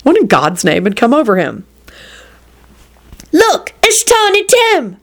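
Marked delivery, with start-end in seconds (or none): 3.3-5.0 high, drawn-out announcement; excited shout. Acted. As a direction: call out a favorite moment. Child calls out at movie.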